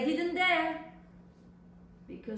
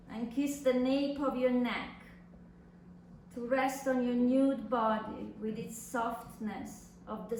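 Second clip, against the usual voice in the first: reading a love letter. Acted. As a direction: read it like a tender secret letter. Reads letter aloud.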